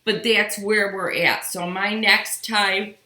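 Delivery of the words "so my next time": slow words through a yawn. Real, not acted. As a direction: yawn while speaking. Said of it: "excuse me for the yawning".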